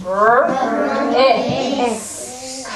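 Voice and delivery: R, I, S said as separate sounds, one at a time; segmenting sounds. Shown as a demonstration. Teacher breaking risk into separate sounds. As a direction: split risk into R, I, S with pauses between. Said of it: "Here we go".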